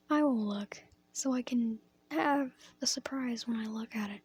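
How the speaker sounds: a slight accidental crack in the voice. Real, not acted. Poet reciting to an audience, slight real voice crack. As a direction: let the voice break briefly mid-phrase. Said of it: "That was a voice crack".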